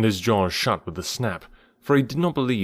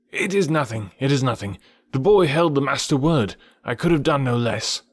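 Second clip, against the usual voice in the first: lightly voiced modest bird, pitched up; Ran the kite; 4 semitones higher, 3 dB louder than usual. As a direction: wave off thanks in a raised bird voice.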